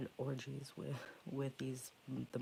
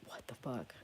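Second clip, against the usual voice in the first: retold whisper; 3 semitones lower, 6 dB quieter than usual. Retold shock at flooded bathroom.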